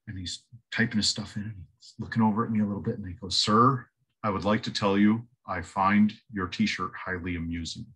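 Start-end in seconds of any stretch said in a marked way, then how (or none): 3.4-7.9 low, dead-straight clerk; mild imitation of a deadpan clerk; completely deadpan. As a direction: say it without a trace of humor. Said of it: "Completely deadpan".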